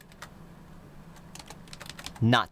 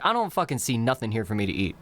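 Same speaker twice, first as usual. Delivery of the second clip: lower, blunt and emphatic gloss; gruff emphatic paraphrase; 5 semitones lower than usual. Shown as a demonstration. Teacher giving the rude sense, blunt and lower. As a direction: say it like a grumbling customer. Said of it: "Meaning, like".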